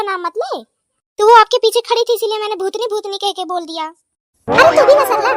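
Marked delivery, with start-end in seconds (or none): 3.8-5.3 laughing scold. Acted. Teasing friend Sarla.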